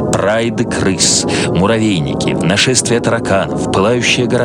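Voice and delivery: normal talking voice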